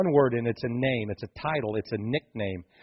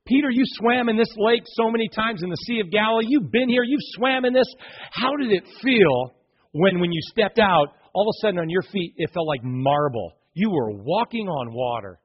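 Jesus marvelling at Peter's water walk; amazed Jesus; 4 semitones higher than usual. Acted. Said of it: "He's like".

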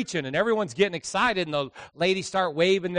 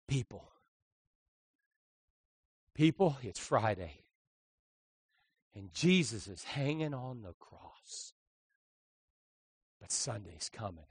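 low and slow start; 6 semitones lower, 8 dB quieter than usual. Retold or imitated. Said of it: "he started low, going slow".

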